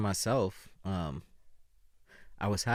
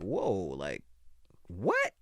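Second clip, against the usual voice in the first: shocked disbelief; much slower than usual. Retold or imitated. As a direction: react like you just heard terrible news. Shocked hearing of Kobe's death.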